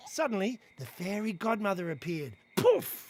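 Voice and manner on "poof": normal talking voice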